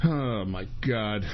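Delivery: low, soft, slow groaned words; quiet, drained exasperation; worn-out despair. Real, not acted. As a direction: let it sag out, defeated. Worn out after ranting.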